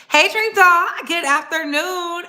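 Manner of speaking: excited greeting. Real, not acted. Greeting a viewer.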